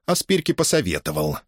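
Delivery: ordinary delivery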